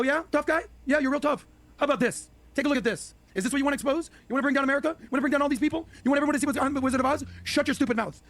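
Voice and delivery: mocking threat. The elites threaten a new official, high and taunting. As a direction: taunt the new guy like a smug bully. Voicing the deep state threatening.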